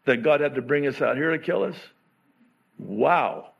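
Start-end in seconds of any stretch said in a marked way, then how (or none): 0.0-1.8 accusing Israelites. Retold or imitated. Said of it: "blaming God".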